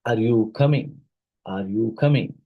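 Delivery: "Are you coming" with the pitch lifted on "coming"; rising question. Shown as a demonstration. Teacher demonstrates a yes-or-no question, rising on "coming". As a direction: prompt an answer, lifting "coming" at the end. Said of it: "with the rising intonation".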